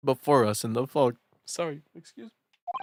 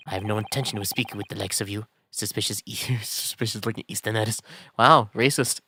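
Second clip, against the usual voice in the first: put-on a soft, dismissive Scottish accent; 4 dB quieter than usual. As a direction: brush off the suspicious foreigners in Scottish. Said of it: "Oh, you're Scottish".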